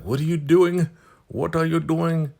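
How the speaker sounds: high-pitched imitation of a questioning wife; mock wifely questioning. Wife asks what are you doing, high mock questioning. Wife confronts another in retold scene.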